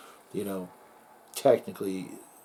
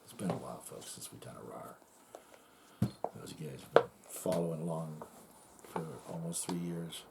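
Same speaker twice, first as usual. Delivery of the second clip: whispering; 3 semitones lower, 9 dB quieter than usual. Real, not acted. Hushed aside to viewers.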